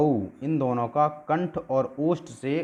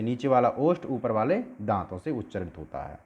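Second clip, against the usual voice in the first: normal talking voice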